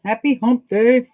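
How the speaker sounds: high, loud sing-out hello; called-out greeting. Real, not acted. Host greeting live viewers on hump day, calling out. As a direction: sing it out to the whole crowd, high and held.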